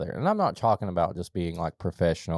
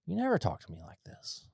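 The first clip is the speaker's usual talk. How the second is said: retold shock; 10 semitones higher, 4 dB quieter than usual. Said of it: "I'm like".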